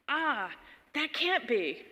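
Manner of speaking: disbelieving friend. Retold or imitated. Friend doubts her North Carolina upbringing, disbelieving.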